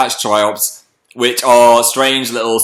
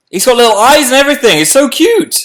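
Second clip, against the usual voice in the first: fast, much higher, gushing over something cute; cooing delight; 10 semitones higher, 3 dB louder than usual. Real, not acted. Showing viewers her shrimp's little eyes, high cooing. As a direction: gush over a tiny pet.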